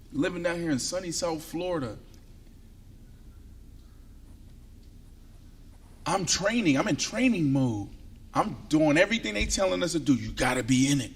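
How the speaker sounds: quiet, confiding setup; soft story voice; hushed storytelling. Real, not acted.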